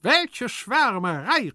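very high, slow, loud outcry; exclaiming servant. A narrator's reading. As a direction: cry out at the folly. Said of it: "rief Hyacinth". (lauter, hoher, gedehnter Ausruf)

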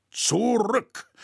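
high, loud order to halt; commanding shout. A narrator's reading. Roritzer halts the storming crowd, loud commanding shout. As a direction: stop the crowd with one word. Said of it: "rief Roritzer".

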